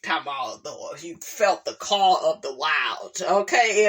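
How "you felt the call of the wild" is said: teasing, low, mocking repeat. Real, not acted. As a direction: repeat it with a skeptical sneer. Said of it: "you know he white".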